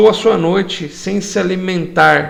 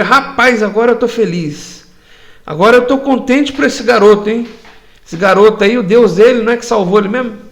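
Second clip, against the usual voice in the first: happy king; 4 semitones higher, faster than usual. Acted. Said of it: "ele ficou extremamente feliz pelo Daniel".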